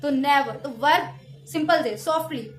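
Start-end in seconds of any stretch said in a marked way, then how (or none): 0.1-0.5 नेवर with a strong, louder first syllable; stressed first syllable. Shown as a demonstration. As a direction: punch the start of नेवर, let the end fall. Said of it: "नेवर को आप थोड़ा strongly बोलते हैं".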